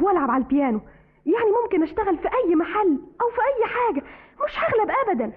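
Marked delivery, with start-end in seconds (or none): 1.3-5.3 tearful resolve. Acted. Desperate girl plans to flee.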